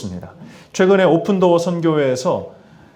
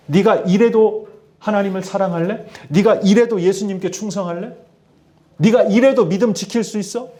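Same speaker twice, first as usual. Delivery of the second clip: higher-pitched challenge, posing as the devil; mock threatening; 5 semitones higher than usual. Devil testing a believer's faith, threatening. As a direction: press each taunting question as a threat. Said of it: "이렇게 협박하는 것처럼 말이죠".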